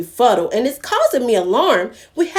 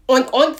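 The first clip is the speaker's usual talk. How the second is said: oink oink; 3 semitones higher than usual. Acted. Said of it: "said Dodo".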